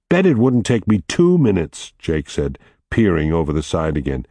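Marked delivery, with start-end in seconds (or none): 0.1-1.9 boastful. Acted. Jake boasting to Arthur.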